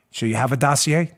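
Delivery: low, soft, mock-dramatic spy voice; hushed movie drama. Host acts out the secret dossier handover, mock-dramatic hush. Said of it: "real dramatic".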